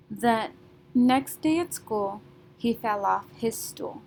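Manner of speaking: measured beats on next, school, fell, stool; stressed beats. Shown as a demonstration. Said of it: "next and school are our stressed syllables".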